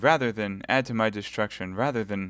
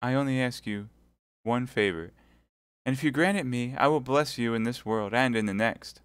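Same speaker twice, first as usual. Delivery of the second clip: high, desperate begging; despairing plea; 4 semitones higher, 4 dB louder than usual. Acted. Milady begging Felton at his feet in despair. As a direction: beg him on her knees. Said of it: "cried Milady".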